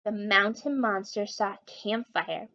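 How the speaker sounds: hint of a big spooky boom. Maxwell telling a scary tale, lightly booming. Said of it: "Maxwell said in a booming voice".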